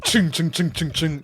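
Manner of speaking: high ching ching flashes; camera flash sounds. Retold or imitated. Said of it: "They're like".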